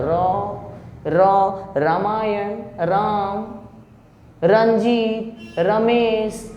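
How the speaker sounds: touch lightly for र in रंजीत and रमेश; thin, gentle र starting रो and राम. Shown as a demonstration. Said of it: "हल्का सा आता है".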